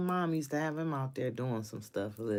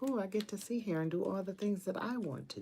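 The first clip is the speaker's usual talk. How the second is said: higher, delighted and giddy; gleeful; 8 semitones higher, faster than usual. Retold or imitated. Told she can work from home, gleefully higher. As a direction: squeal it like a kid let off school. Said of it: "I was like".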